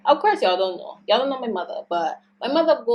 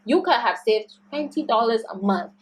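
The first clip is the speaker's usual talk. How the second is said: angry venting; 2 semitones higher than usual. Retold or imitated. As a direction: rant it to mom, worked up and offended. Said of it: "don't be so angry".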